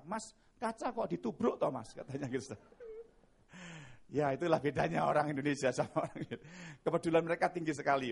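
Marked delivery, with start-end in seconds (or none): 0.0-1.9 a hint of a teasing bystander; lightly mocking the man who bumped the glass; slightly higher casual jibe; idle local. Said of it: "dia malah bilang apa?".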